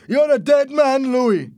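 high-pitched, full-voiced threat; shouting. A narrator's reading. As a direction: yell the threat at full force. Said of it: "Roberto shouted".

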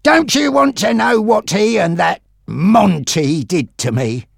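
high-pitched, distressed challenge; upset, pleading question. A narrator's reading. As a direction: start high and agitated, then drop. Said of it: "very upset".

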